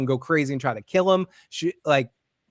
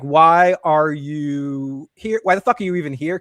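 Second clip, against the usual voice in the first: louder, drawn-out mock exasperation; exasperated retort; 5 dB louder, slower than usual. She questions why Kenny is there, acted exasperation. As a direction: stretch the opening, then snap impatiently.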